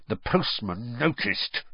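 slow words pushed through clenched teeth; through gritted teeth. Acted. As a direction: hold the jaw tight and grind it out. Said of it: "he said through gritted teeth".

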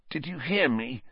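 barely enough strength left; weak. A narrator's reading. Injured Ron challenging Black, soft and weak. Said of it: "Ron said weakly".

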